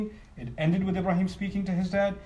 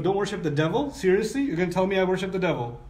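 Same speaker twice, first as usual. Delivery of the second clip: higher, louder indignant disbelief, quickening; offended dad; 3 semitones higher, 4 dB louder than usual. Retold or imitated. Father outraged at his son's accusation, indignant. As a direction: bristle at the accusation like an insulted father. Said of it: "He's gonna get even more angry".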